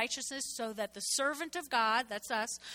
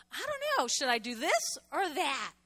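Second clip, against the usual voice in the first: confused believer; 3 semitones higher than usual. Retold or imitated.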